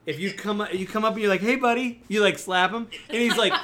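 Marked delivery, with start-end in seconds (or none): 1.4-2.0 hey buddy, louder and higher; loud friendly call. Acted. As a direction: rouse him with a hearty call. Players slapping goblin awake.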